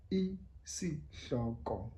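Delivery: Isihloko said very slowly, hl breathed; isiXhosa word. Shown as a demonstration. Teacher modelling Isihloko slowly. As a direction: stretch out Isihloko. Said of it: "the title".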